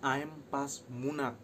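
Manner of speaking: slow careful demo of the insult. Shown as a demonstration. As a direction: spell out "I'm pas munak" slowly, each syllable clear. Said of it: "dengan sebutan gini".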